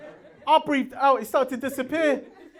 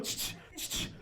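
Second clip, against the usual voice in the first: mock clapping sound; 14 dB quieter than usual. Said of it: "my arse cheeks going".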